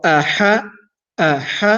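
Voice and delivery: throat sounds of Aha. Shown as a demonstration. Teacher sounding out the throat letters for students. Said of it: "A is from the bottom ... middle of the throat".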